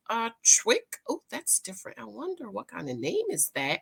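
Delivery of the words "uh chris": Chris said as Chwick, w for r; mispronounced Chris. Shown as a demonstration. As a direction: lisp the name into Chwick. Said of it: "written by Chris".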